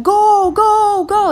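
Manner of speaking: high, loud mock cheer; cheering yell. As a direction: urge the rider on, yelling. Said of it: "they're screaming".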